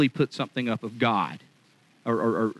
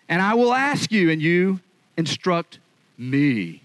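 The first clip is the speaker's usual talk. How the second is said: much higher and louder, booming command; God's challenge; 5 semitones higher, 4 dB louder, slower than usual. Acted. God demanding answers from Job, loud and commanding. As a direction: thunder it down from heaven.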